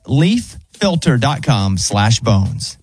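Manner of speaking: slow, steady ad read; radio ad read. Acted. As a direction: sell the gutter product clearly. Reads a gutter ad.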